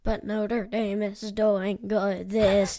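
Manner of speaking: slow spooky zombie drawl. Pretend. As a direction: moan it like a zombie. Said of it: "Is that your spooky voice?".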